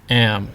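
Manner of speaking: "Am" sinking in pitch; falling tone. Shown as a demonstration. Teacher isolating the example word, "Am" falling. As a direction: let "Am" fall on its own. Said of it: "is a falling tone".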